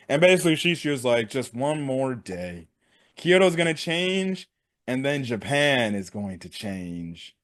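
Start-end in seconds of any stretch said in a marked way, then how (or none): 1.3-7.4 drawn-out menacing proclamation; villain's vow. Retold or imitated. Shishio vowing to change Japan, slow and brooding. Villain's grand speech retold.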